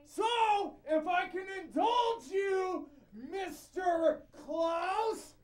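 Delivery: shouting through a cone. Real, not acted. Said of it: "I don't need a microphone because I found this cone".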